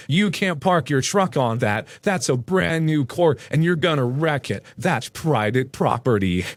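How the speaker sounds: slow, emphatic mock yelling; retold yell, each word leaned on without real volume. Angry neighbor objects to a truck on the court, slow mock yell. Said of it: "He's yelling".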